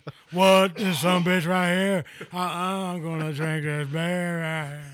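loud, hyped wrestler promo voice; wrestling promo shout. Retold or imitated. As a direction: cut a brash pro wrestling promo. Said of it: "I just cut a pro wrestling promo".

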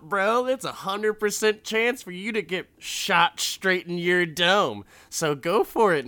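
high, loud mocking taunt; taunting gambler. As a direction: goad him like a cocky winner. Sam taunting Reno in retold scene.

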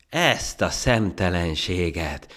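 slow, loud, high exclamation; outraged shout. Acted. Monkey appalled at the ant's cheek, shouting. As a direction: cry out at the cheek of it. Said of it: "kiáltotta".

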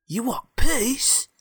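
high, slow, puzzled robot; baffled robot voice. Acted. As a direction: drag it out in disbelief. Puzzled robot questions stranger.

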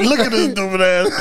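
laughing while mocking; mocking through laughter; laughing mockery. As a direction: giggle it out from hiding. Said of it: "I'ma be in the bushes laughing like".

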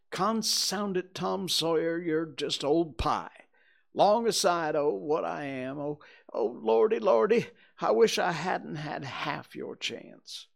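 high, loud, woeful protest; snuffling, wailing boy. Acted. Huck tells Tom he is far worse, wailing. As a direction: bewail it like a despairing boy.

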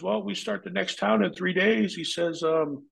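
lightly voiced boss; imitating the boss. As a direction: talk business as the boss.

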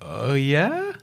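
imitated blank, uncertain reply with rising end. Agent retelling his awkward reply to the manager, blank and questioning. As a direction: answer blankly, unsure how to respond. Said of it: "you just looking blankly at him".

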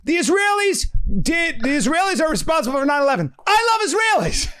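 high-pitched mocking impression; Sam. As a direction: parody a friend in a squealing, insistent voice. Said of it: "this is Sam's, this is Sam".

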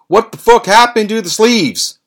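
loud, high-pitched furious yell; imitated outrage. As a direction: shout it in horrified disbelief. Imitates Noof outraged over missing sleeves.

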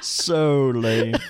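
laughing. Real, not acted. Laughing at themselves.

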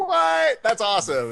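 high, loud delighted squeal; giddy, pitched-way-up reaction; thrilled disbelief. Retold or imitated. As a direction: burst out in retold amazement. Retold delighted reaction to praise.

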